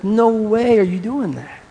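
high, drawn-out mock protest; slow, high-pitched refusal, acting out a disciple; retold rebuke. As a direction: object in disbelief, stretching it out high. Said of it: "rebuked Jesus directly".

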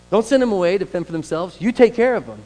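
high, loud call to act; emphatic urging. Real, not acted. Preacher urging the church to care, emphatic. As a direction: press it home to the church.

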